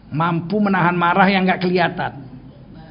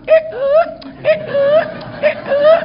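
mocking laugh; much slower than usual. Mocking the objector's reaction.

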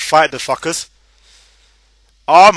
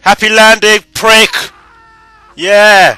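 manic gleeful yell, higher and louder; crazy lunatic voice; 5 semitones higher, 7 dB louder, slower than usual. Acted. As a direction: cackle it like a madman. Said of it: "I sound like a crazy lunatic".

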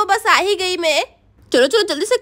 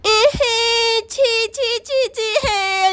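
disgust; 4 semitones higher, much slower than usual. Acted. Lands in dung, disgusted.

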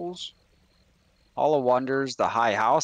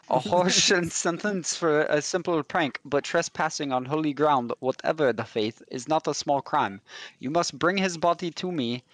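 put-on a light, hammy French accent; mock French accent. Priest explaining his need, in mock French accent. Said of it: "seventy percent German slash French coming out".

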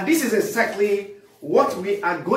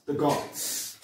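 breathy whispered repeat, much softer; whispered echo; 4 semitones lower, 7 dB quieter than usual. Real, not acted. Lecturer echoes the gods to the class in a whisper.

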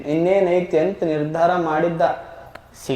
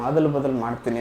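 ಅದಲ್ ಬದಲ್ ಮಾಡ್ತೀನಿ dropped to a softer, lower murmur; quiet repeat; 3 semitones lower, 5 dB quieter than usual. Retold or imitated. Man repeating his vow to himself, softer and lower. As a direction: say it again under the breath.

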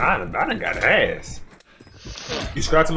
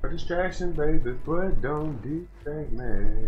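higher, slow, drawn-out teasing; teasing drawl; 5 semitones higher, slower than usual. Pretend. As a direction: stretch it out playfully. Repeats distraction, drawn out.

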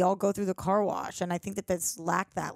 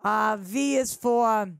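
put-on Boston accent. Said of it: "Boston shout out".

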